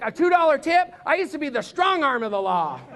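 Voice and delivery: hammed-up outrage; really ticked. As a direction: protest like an insulted bigshot. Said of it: "he would be really ticked".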